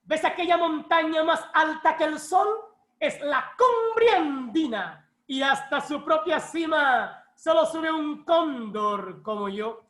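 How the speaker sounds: slow, grand recital falling away at the end; poetic declamation. Retold or imitated. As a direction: declaim it like a stage poet. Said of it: "él declama". (declamación poética pausada)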